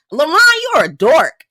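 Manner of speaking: high mocking girl voice, snapping at LaRon; mocking Alexis. Imitating Alexis snapping at LaRon in a high voice.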